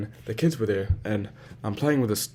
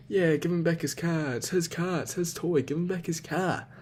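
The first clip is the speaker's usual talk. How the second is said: higher-pitched, insistent mimicry of nagging; imitated scolding relatives; 7 semitones higher than usual. Family telling him to return the toy, high insistent scolding. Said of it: "saying to me".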